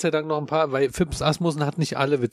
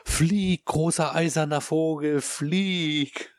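grand pilot mic call; 3 semitones higher, much slower than usual. Retold or imitated. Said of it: "ins Mikrofon sagst".

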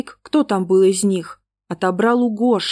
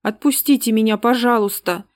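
whimpering plea; 3 semitones higher than usual. Acted. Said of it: "прохныкала Света маленькая".

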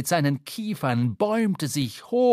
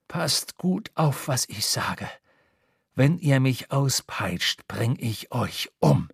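slow, low, deliberate menace; slow threat; 3 semitones lower, slower than usual. A narrator's reading. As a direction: spell out the threat word by word. Bound sailor threatens captain.

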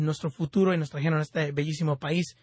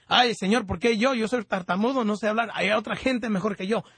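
higher-pitched, mildly anxious pleading; imitating fearful Moses; 5 semitones higher than usual. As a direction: plead as a reluctant, timid Moses. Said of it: "tenía mucho miedo de decirle".

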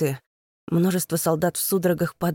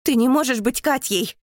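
higher, louder refusal; denying shout; 7 semitones higher, 4 dB louder than usual. A narrator's reading. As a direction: shout her down in disbelief. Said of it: "кричу я ей".

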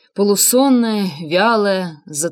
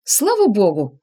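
mock exclaiming; slower than usual. A narrator's reading. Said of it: "наигранно воскликнула Инга".

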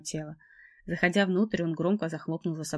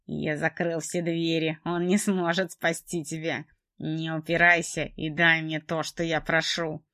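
slow menacing man; slower than usual. Acted. Trevor threatens her.

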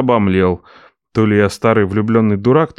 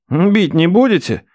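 higher, slow wary question; wary nephew; 7 semitones higher than usual. Acted. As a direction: check nervously. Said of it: "уточнил Ренат".

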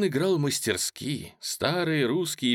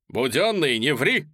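shout; 3 semitones higher, 4 dB louder than usual. Acted. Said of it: "крикнул Полежаев".

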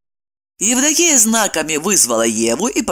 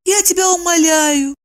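high squeaky pleading voice; squeaky plea; 9 semitones higher than usual. A narrator's reading. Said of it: "пропищала вместо него Евдокия". (пропищала умоляюще)

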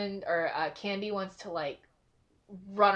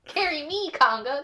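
put-on much higher, pleading little-kid voice; begging gem; 8 semitones higher, 6 dB louder than usual. Gems begging Congo Line to carry them, childlike. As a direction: beg like a child wanting a lift.

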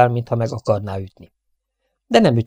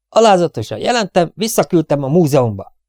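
dutiful soldier; 5 semitones higher, 4 dB louder than usual. Acted. Soldier reporting to prince.

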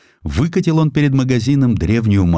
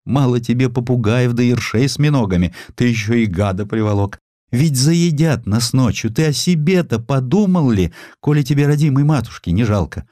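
put-on scolding old mother; 5 semitones higher than usual. Mother scolds son about pets.

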